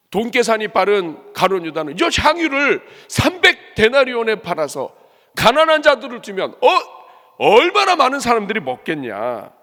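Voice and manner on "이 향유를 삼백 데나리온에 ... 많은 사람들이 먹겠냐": loud, high, righteous telling-off; angry scolding. Acted. Preacher acting Judas berating the woman over the perfume, loud scolding. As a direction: reproach her as if outraged on behalf of the poor. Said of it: "하면서 막 책망돼요".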